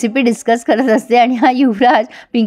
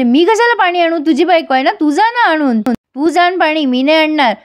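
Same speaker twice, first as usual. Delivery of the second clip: higher, mock-stubborn refusal; sister-in-law teasing the couple, higher mock refusal; 5 semitones higher than usual. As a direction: refuse playfully, pitched up. Chhabi refuses to fetch water.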